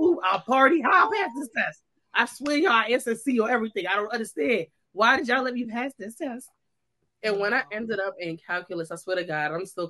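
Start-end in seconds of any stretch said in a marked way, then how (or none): 0.0-6.5 higher-pitched, hammed-up confusion; mock baffled student. To the teacher, a hammed-up baffled plea about passing. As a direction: play a student who can't believe she passed. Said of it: "I was like".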